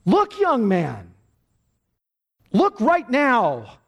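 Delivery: high, loud, slow shouted command; preacher shouting at the miserable young man. Retold or imitated. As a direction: bellow each look, dragging it out. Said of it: "And he shouted".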